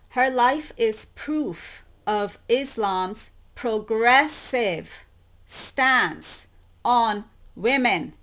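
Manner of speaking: slow, deliberate reading of the quote; read out slowly. Shown as a demonstration. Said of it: "Let me emphasize that".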